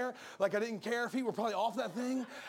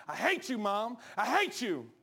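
put-on sulky kid; slower than usual. Preacher acts out a kid yelling at mom, mildly hammed. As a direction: play the angry kid, lightly. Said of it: "When your kids say".

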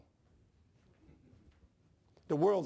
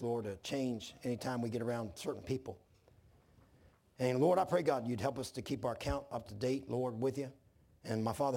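even, conversational public prayer; earnest prayer; 3 semitones lower than usual. Real, not acted. Pastor prays for his congregation, earnest prayer. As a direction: plead simply with God, pitch settling at phrase ends.

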